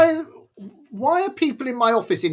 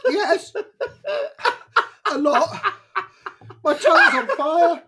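laughing through pain; 5 semitones higher than usual. Real, not acted.

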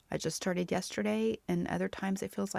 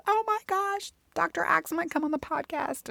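giddy excitement; 12 semitones higher than usual. Retold or imitated. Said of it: "texting my friends".

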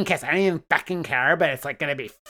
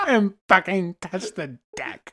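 laughing shout; 6 semitones higher, 5 dB louder than usual. Real, not acted. Laughing dare shout at friend.

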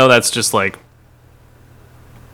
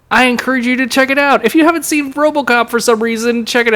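put-on mid-Atlantic accent; 10 semitones higher, faster than usual. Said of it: "talk in a mid-Atlantic accent".

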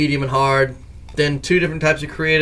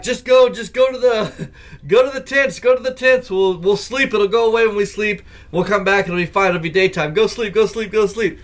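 urgent; 5 semitones higher than usual. Retold or imitated. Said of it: "I'm like".

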